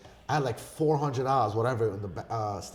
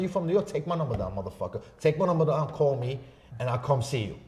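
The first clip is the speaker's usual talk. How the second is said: higher, louder mock confrontation; retold challenge; 4 semitones higher, 4 dB louder than usual. Man challenging a stranger from New York, heated retelling. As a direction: throw down a retold dare. Acted challenge in airport quarrel.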